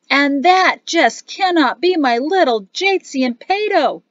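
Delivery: high, loud, jovial greeting; booming family-friend welcome; delighted exclamation. A narrator's reading. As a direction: exclaim with big affectionate disbelief. Gazada greets the children joyfully.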